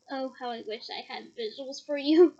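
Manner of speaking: giggling through the aside; laughing to the listeners at the joke. Real, not acted. Reader laughing to her audience about the scene.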